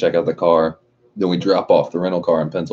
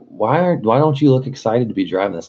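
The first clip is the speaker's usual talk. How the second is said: higher, gushing car fan; gushing girl; 6 semitones higher than usual. Retold or imitated. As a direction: squeal over the cute car like a fan. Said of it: "she's like".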